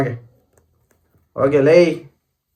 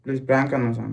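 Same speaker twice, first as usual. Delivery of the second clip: soft tearful begging; 7 dB quieter, faster than usual. Real, not acted. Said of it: "ನಂಗ್ ಅಳು ಬರುತ್ತೆ ಸುಮ್ನೆ".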